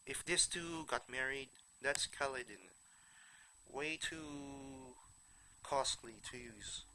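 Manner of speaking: blocked-nose, nasal tone; nasally voice. Real, not acted. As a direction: talk through a stuffy nose. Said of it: "Sorry for my nasally voice".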